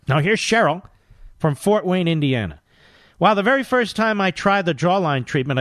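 upbeat hard-sell ad read. Acted. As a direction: push the sale like an infomercial. Host reads skincare ad.

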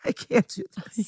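tiny high squeak of defeat; playful despair. Pretend. Host telling co-host she can't go on, mock-despairing squeak. Hosts bemoan remaining plot twists.

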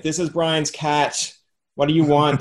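slow, put-on cat answering phone. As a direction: answer like a grumpy house cat. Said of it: "that's my cat voice".

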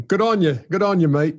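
light mock-Aussie accent; attempted Australian accent. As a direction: toss out an Aussie catchphrase accent. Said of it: "what would your Australian accent sound like".

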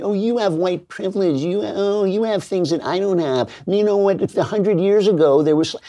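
whiny mock complainer. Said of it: "sitting around going".

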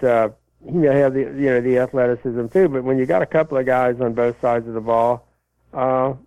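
ordinary talk

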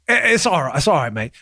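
a weak, half-hearted Australian accent; bad Australian accent. Shown as a demonstration. Bad Australian accent after his cohost says it's all right. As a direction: toss off a badly faked Australian "mate". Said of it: "that's Australian, probably. I do the worst accents ever".

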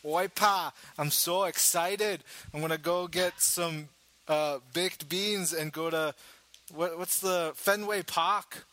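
excited, hammed-up fake New England accent; Ben impression. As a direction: put on a broad, badly faked Boston accent. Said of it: "I'm gonna do my best Ben impression".

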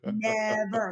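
drawn-out movie-style never; Sandlot voice. Acted. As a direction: stretch NEVER like a Sandlot quote. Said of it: "nod to the Sandlot in that voice".

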